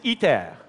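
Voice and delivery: "iter" said the French way, ee-TAIR; French pronunciation. Shown as a demonstration. Speaker introduces the fusion project to the audience, "iter" in French pronunciation. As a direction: say "iter" as in French, stressed on the end. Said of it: "pronounced in French".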